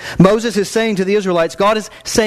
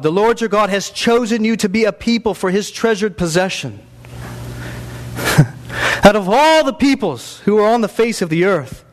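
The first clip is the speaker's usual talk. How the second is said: scripture reading; 3 semitones higher than usual. Acted. Preacher reads scripture aloud.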